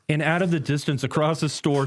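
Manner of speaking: ordinary delivery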